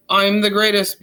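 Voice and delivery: cocky daredevil; boastful. Acted. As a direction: brag like a show-off. Fish boasting.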